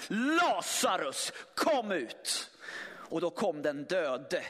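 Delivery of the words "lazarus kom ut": starkt, utdraget rop; ropar på Lazarus. Acted. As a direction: kalla honom högt ur graven, långsamt. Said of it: "Vad är det som händer här?". (starkt och långsamt rop ut i mörkret)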